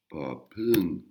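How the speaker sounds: popung with air puffed after each P; aspirated popung. Shown as a demonstration. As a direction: breathe out hard on the P of popung. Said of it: "de l'air qui sort".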